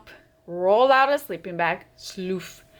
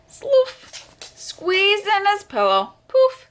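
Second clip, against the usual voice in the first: high, punchy sound words; high sound effects; 11 semitones higher, 4 dB louder, slower than usual. A narrator's reading. Reading the packing noises to kids, high and punchy. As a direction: pop each sound word up high.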